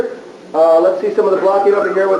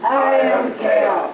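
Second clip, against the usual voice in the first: villain line; much slower than usual. Shown as a demonstration. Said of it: "let me hear it together".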